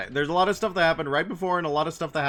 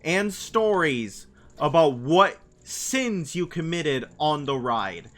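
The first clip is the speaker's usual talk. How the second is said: imitating the YouTuber; 5 semitones higher, 6 dB louder, slower than usual. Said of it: "where he's like".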